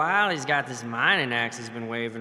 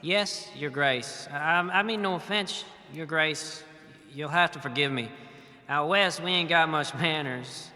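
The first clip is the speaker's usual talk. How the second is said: lightly voiced frontier peasant; 3 semitones higher than usual. Peasant witness answering the lord, lightly folksy and nervous. Player speaks as western peasant.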